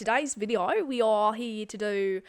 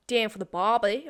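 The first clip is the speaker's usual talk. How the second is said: mock Australian; 4 dB louder than usual. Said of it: "how to do an Australian one".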